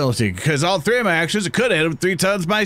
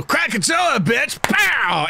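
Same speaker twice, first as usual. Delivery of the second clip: put-on extreme hyped kids ad; 6 semitones higher, much slower than usual. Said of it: "I love this voice so much".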